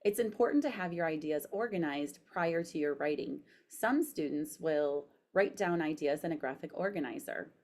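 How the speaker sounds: careful dictation, spoken punctuation; dictating. Shown as a demonstration. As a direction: read it clearly to voice typing. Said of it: "So I'm pushing the microphone".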